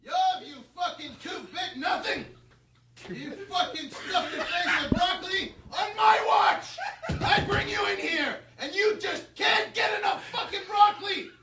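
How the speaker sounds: shouted mean tirade, laughing through it; meaner rant. Shown as a demonstration. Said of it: "Can you do it again, but meaner?".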